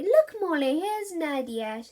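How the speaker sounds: put-on mother to baby; bright coaxing. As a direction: show the toddler her friend. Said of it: "said Jenny".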